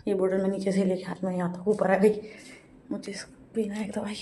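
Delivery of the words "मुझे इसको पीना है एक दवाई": soft whispered aside. Real, not acted. Vlogger telling viewers about her medicine, whispered. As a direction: drop to a whisper for a private note.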